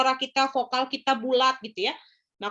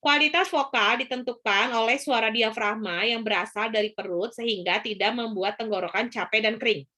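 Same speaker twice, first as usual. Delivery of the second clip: throat voice. Shown as a demonstration. Teacher demonstrating the tiring way to speak, throat voice. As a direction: run it on from the throat. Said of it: "kalau suara tenggorokan, dia itu seperti ini".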